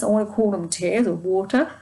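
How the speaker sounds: talking through a yawn; stifle a yawn as you talk. Real, not acted. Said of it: "excuse me, um, yawn".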